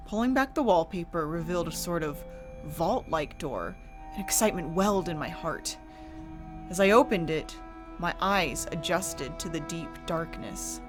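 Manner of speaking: hushed, eerie storytelling. A narrator's reading. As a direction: narrate a gothic horror tale. Horror story narration with music.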